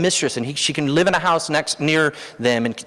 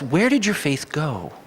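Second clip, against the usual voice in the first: slow gentle question; 2 semitones higher, slower than usual. Retold or imitated. Preacher explaining Jesus' meaning to the congregation, slow and gentle. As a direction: ease it out slowly like a patient explanation. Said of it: "And what he means by that is".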